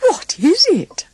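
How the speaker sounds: high, bright little dwarf voice; Happy's question. A narrator's reading. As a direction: pitch it way up like a tiny dwarf. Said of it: "asked Happy".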